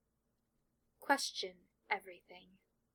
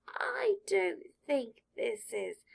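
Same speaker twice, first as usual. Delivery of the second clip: slow, higher, loud breathy whisper; sorting hat voice; 10 semitones higher, 7 dB louder, much slower than usual. Acted. Sorting hat tries again to interrupt Draco, urgent whisper. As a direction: cut in urgently, hushed.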